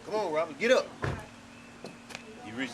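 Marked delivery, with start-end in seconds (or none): 0.0-0.9 retold command rising on "get up"; firmer urging. Retelling urging Robert to stand, firmer. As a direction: urge him up, building to the last words.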